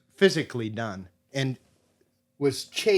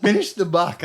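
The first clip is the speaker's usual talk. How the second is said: incredulous echo; 6 semitones higher, 6 dB louder than usual. Retold or imitated. Echoing the demand in disbelief.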